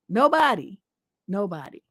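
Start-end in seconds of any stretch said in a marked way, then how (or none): 1.3-1.8 quiet lower afterthought; soft trailing repeat. Real, not acted. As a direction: let the echo fall away quietly. Repeats word, dropping away.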